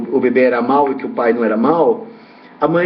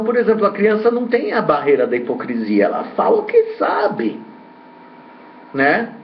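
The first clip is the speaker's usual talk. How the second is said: ordinary talk, nothing marked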